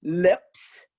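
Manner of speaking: "lips" shaped carefully with a rise; articulated demo. Shown as a demonstration. Teacher showing students how to say lips. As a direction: exaggerate the lips in "lips". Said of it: "I took my tongue to the top".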